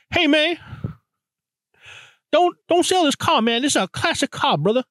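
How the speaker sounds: high mimicked Black American accent for a retold quote; imitated Black American accent. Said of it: "doing a black accent".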